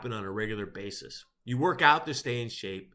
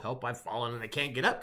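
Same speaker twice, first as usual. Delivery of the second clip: quoted caller plea; 3 semitones lower, 5 dB quieter than usual. Retold or imitated. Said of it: "a simple call of".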